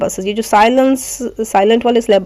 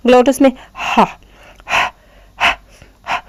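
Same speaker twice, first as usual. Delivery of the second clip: short breathy ha from the throat; breathy ha sounds; 3 semitones higher than usual. Shown as a demonstration. Teacher demonstrating ha to students. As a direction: push out a light ha from the glottis. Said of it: "हलक से निकल रहा है ना".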